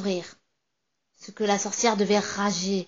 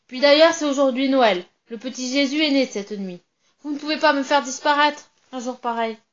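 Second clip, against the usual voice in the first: pleading; 3 semitones higher, 4 dB louder than usual. Acted. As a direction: beg for your life, babbling. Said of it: "je me mets à supplier".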